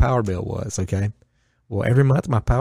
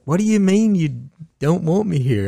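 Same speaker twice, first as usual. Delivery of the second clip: higher and raised, indignant retelling of his reply; outraged disbelief; 7 semitones higher, 4 dB louder than usual. Retold or imitated. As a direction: replay the shock of being told to leave. His own outraged reply retold.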